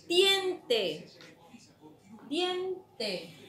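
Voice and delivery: "tiempo" agudo y fuerte, bien separado; dictado marcado. Shown as a demonstration. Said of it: "Siguiente palabra". ("tiempo" dictado con fuerza)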